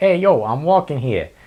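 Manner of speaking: put-on Brooklyn accent. Imitating jaywalkers on New York City streets, bad Brooklyn accent. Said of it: "really bad Brooklyn, New York accents".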